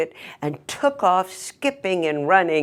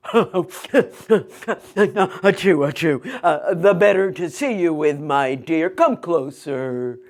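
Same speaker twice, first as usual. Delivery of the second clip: a hint of a sly granny voice; wolf as grandma.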